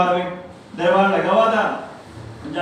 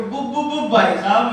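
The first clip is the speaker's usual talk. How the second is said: put-on stuttering boy. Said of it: "तुतला के बोलता है".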